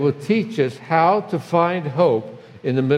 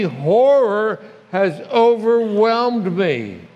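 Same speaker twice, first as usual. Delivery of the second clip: anguished reading; 2 semitones higher than usual. Shown as a demonstration. Pastor reads the psalmist's lament to the congregation, anguished and pleading. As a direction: read the psalm like a man in real pain. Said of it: "read it with the emotion in which the author wrote it".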